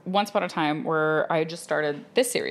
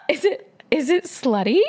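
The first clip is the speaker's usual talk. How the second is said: laughing retelling; 9 semitones higher, 4 dB louder than usual. Retold or imitated. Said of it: "She used the word slutty".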